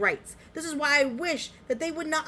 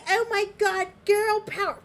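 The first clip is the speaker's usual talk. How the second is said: high mocking valley girl voice; mocking girly voice; 10 semitones higher, 3 dB louder than usual. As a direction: sneer it in a high bubbly mock voice. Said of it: "not to be".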